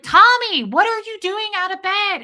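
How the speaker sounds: high-pitched yelled scolding; loud, alarmed re-enacted shout; retold screaming. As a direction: holler it at someone blocks ahead. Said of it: "And I'm screaming".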